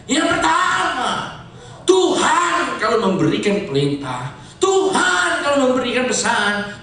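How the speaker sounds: emphatic preacher's delivery with surging pitch; forceful preaching. Real, not acted. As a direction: preach with stretched, weighty key words.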